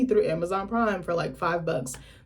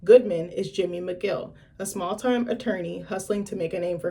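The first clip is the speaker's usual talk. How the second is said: reading aloud. Acted. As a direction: read it like a blurb. Reads show synopsis aloud.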